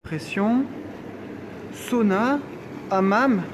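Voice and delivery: thrilled tour of the spa; excited. Real, not acted. Excited spa tour listing rooms.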